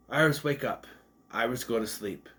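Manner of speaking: name first, then a matter-of-fact order; imitated command. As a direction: quote it like a programmed command. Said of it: "Those are commands".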